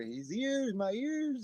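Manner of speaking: high-pitched mock wail; mock complaint. Imitating a friend woken by the singing, mock wail. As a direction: wail as if your ears hurt. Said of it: "That's what he'd be saying".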